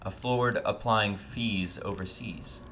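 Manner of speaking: sportscaster voice. Acted. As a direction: read it like a smooth sports announcer. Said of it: "sexy voice I can manage. Like the sportscaster voice".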